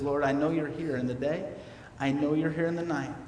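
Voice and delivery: low, soft plea to God; softly confiding in the Lord; quiet prayer. Acted. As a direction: drop into a hushed, trusting lament. Psalmist's quiet prayer amid lament.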